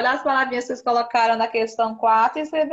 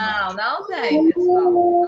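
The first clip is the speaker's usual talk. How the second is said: loud, emphatic no to the class; firm correction; 5 semitones higher, 9 dB louder, slower than usual. Real, not acted. Teacher correcting pupils' wrong answer, loud and firm.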